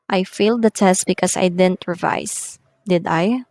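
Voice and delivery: confirmation-seeking "Did I", tune going down; falling tag question. Shown as a demonstration. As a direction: let "Did I" drop at the end. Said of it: "we use a falling tone".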